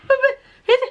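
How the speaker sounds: high, wailing half-laughing whine; a hammed-up sob over a ruined cuff; mock crying. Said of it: "I was like".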